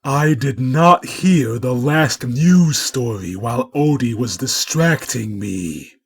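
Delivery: loud, indignant complaint; angry cat scolding the dog; furious. Acted. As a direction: rage at the missed news. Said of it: "all these acts being performed with fury".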